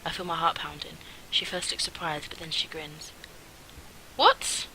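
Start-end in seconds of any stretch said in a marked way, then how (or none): 4.1-4.7 sudden high loud gasp of a question; shocked what. Acted. Sister hearing the pregnancy news, shocked. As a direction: jolt up in disbelief. Character's shocked reaction read out.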